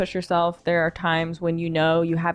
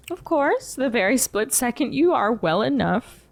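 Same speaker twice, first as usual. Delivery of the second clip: lightly raised, kindly tea shop keeper; gentle shopkeeper voice; 5 semitones higher than usual. Acted. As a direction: coax a tired guest to rest. Shopkeeper agrees.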